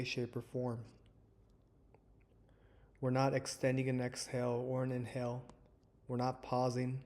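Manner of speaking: calm, measured meditation guide with long pauses; guided meditation. Acted. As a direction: ease listeners into stillness, leaving space between phrases. Leads a guided breathing meditation.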